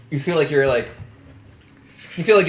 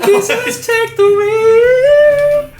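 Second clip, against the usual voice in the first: laughing; 5 dB louder, much slower than usual. Real, not acted. Overwhelmed by hot sauce.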